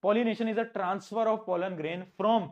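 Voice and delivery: slow, word by word for notes; slow dictation. Shown as a demonstration. Teacher dictating the pollination definition slowly to students. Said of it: "pollination क्या होता है?".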